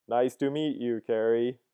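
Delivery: flat, even robot voice. Shown as a demonstration. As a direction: read it like a robot. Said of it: "I'm trying to read it in a robot voice".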